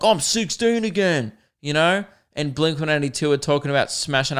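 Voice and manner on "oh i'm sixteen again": put-on higher, giddy teenage voice; mock teen excitement. Gliding the chips aisle to pop punk, giddy mock teen voice. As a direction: sound like a hyped kid again. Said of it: "I'm like".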